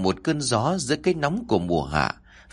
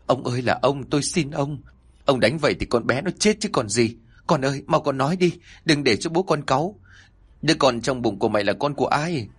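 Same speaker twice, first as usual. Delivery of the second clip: higher-pitched mother begging her husband; pleading wail; 4 semitones higher, faster than usual. Acted. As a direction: cry out to stop him hitting the girl. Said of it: "gào lên". (người mẹ gào lên van xin, giọng cao)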